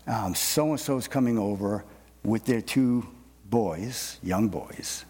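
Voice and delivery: lightly voiced wife, casual announcement; a hint of the wife telling him, slow; husband retelling his wife's news, mild imitation; quoting wife. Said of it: "my wife will say".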